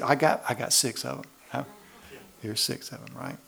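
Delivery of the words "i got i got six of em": high, loud, eager mock woman rummaging. Preacher mimicking a church lady with a full purse, high and eager. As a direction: ham up a woman offering everything from her purse.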